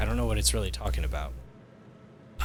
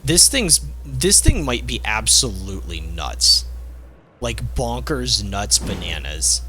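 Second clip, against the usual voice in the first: excited; 2 semitones higher, 4 dB louder than usual. Real, not acted. Excited about overpowered weapon.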